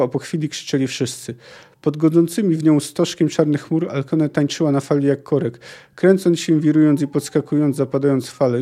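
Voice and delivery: dramatic read-aloud of a sea tale; story narration. A narrator's reading. Sailor recounts a storm to his jarl, story narration. Reads a long quote from a novel.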